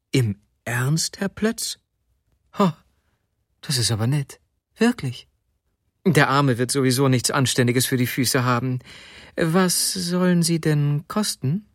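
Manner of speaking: lightly voiced woman, pleasantly surprised; a hint of a grateful wife; delighted wife. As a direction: react with hopeful surprise, lilting upward.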